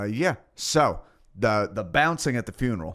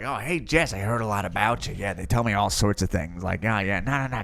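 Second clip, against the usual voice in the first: creepy high voice. Retold or imitated. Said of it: "Also, high voice, terrifying".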